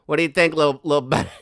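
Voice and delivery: mock bossy photographer. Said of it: "He's like".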